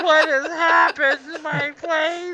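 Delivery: very high, wailing cry of grief. Voicing the barkeep as his inn goes up in flames; wailing. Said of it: "you hear the wailing of the barkeep".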